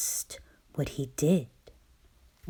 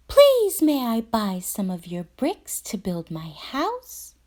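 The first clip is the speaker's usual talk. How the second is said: little pig asking; 6 semitones higher, 4 dB louder than usual. A narrator's reading. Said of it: "he asked".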